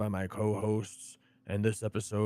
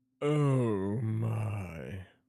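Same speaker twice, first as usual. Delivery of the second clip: "my" drawn out long and lingering. Warming up before the intro with a George Takei impression. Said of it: "Let me get into my George Takei here".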